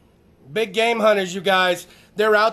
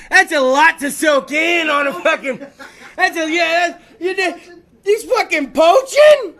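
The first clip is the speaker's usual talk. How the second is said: flustered, stammering disbelief, climbing higher; incredulous; 3 semitones higher, 4 dB louder, slower than usual. Acted. Date learns grandpa was a poacher, mock flustered disbelief. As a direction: stumble over it, then burst out high and loud. Acting a shocked date's reaction.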